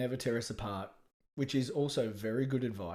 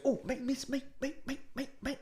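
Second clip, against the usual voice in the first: put-on high, eager kid voice calling for the teacher; cheeky schoolboy; 12 semitones higher, 4 dB quieter than usual. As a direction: pipe up high like a kid desperate to answer. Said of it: "And he goes".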